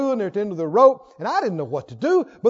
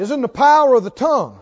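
shouted line for the crowd to echo; loud call; 2 semitones higher, 5 dB louder, faster than usual. Shown as a demonstration. Preacher leading the church, loud call-and-response. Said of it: "Sit out loud".

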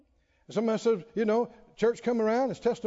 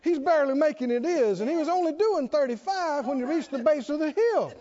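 raised-pitch sermon storytelling; animated preaching; 7 semitones higher than usual. Real, not acted. Preacher tells of Terry's struggle up the hill, animated preaching.

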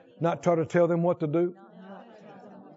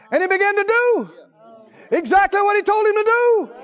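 higher, louder, with shouts and laughs of joy; ecstatic preaching; 11 semitones higher, 5 dB louder than usual. Acted. Preacher celebrating the miracle before the congregation, ecstatically. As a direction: let the joy burst out.

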